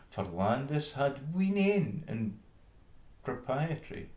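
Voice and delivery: high, earnest little mouse voice; country mouse defending her poor upbringing. Acted. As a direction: stand up for your humble life. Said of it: "quoth she".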